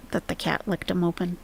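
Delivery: hushed unvoiced whisper. Real, not acted. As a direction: whisper the question conspiratorially. Whispered question about the post.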